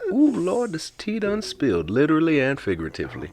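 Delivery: high, excited, camp exclamation; sassy gossip. Pretend. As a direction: relish spilling the tea.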